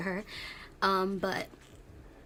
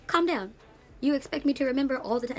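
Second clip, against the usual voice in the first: much higher, louder, indignant at the driver; exasperated rant; 6 semitones higher, 4 dB louder than usual. Retold or imitated. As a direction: vent at the rude taxi driver, loud and high. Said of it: "I'm like".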